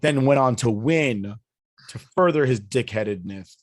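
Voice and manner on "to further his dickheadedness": slight lisp on the s sounds. Real, not acted. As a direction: talk with a lisp. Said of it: "Excuse the lisp".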